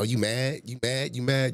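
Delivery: put-on girly voice, mocking and taunting. Mocking a streamer's critic by imitating how women taunt: mocking girly voice. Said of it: "That's how females sound".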